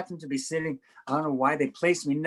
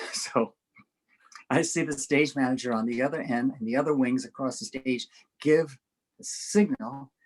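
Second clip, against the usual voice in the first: ordinary talk, nothing marked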